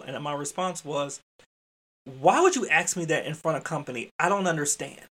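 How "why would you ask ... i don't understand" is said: mildly exasperated scolding question; irritable. Retold or imitated. Educator to staff member after company left, mildly irritable. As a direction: scold like a father with his own child. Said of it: "it was irritable".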